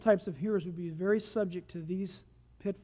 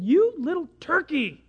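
louder, slow mock scolding; playful scolding; 4 semitones higher, 6 dB louder than usual. Preacher to the caught sparrow, playful scolding. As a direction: scold a tiny troublemaker with exaggeration.

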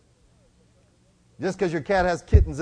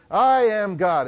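hammed-up proclamation, louder and higher; mock yell; 6 semitones higher, 8 dB louder, slower than usual. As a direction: proclaim it out to the ocean. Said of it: "she stands there yelling at the ocean".

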